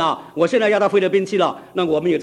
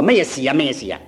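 Cantonese; 4 semitones lower than usual. Retold or imitated. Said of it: "广东话".

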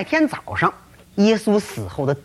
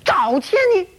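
flustered; 6 semitones higher than usual. Acted. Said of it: "约安娜一急".

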